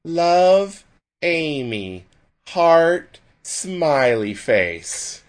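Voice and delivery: high mock girly voice reading a letter. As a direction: read it like a teen boy mocking a girl. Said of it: "I still hear his voice ... reading".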